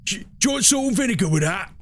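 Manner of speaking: quick, lightly voiced chip-shop lady; a hint of the brisk server Sandra; imitating Sandra. Chip-shop server Sandra asking the streamer about salt, lightly imitated. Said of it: "named Sandra says".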